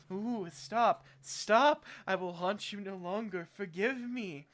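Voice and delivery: mock ghost begging, high and loud on the stops; hammed-up pleading. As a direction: cry out for mercy, playfully overdone. Corpse begging her to stop.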